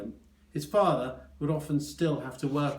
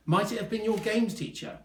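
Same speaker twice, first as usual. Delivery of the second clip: high, eager question; excited; 9 semitones higher than usual. A narrator's reading. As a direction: ask it bright and keen, pitched high. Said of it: "said Doctor Lupus excitedly".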